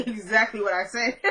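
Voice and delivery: sassy clapback, rising at the end; with attitude. Retold or imitated. Recapper shows how she'd answer Julius, with attitude. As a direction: give it the attitude she didn't. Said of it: "I would've been like".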